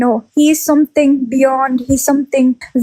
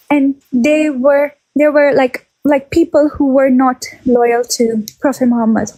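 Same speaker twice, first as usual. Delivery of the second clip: breathless, pregnant speaker; out of breath. Real, not acted. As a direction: talk out of breath. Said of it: "I'm getting out of breath".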